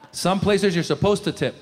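ordinary delivery

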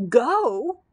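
loud, high startled question; mock shriek of disbelief. A narrator's reading. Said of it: "shrieked the Grand Choo Choo".

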